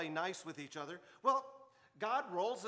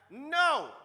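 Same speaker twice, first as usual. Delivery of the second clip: high, loud defiant yell; child shouting; 9 semitones higher, 11 dB louder than usual. Retold or imitated. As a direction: shout it like a stubborn kid. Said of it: "the kid shouts back".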